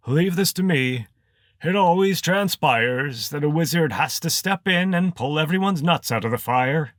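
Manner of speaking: high, loud pompous wizard; a showy wizard taking charge. A narrator's reading. Wizard John voiced in story.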